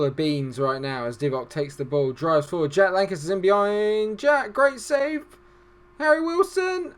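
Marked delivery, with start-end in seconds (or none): 2.7-6.9 climbing to a high, loud cry; excited commentary. Real, not acted. Commentator following a chance on goal, rising excitement. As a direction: build with the attack into a stretched shout.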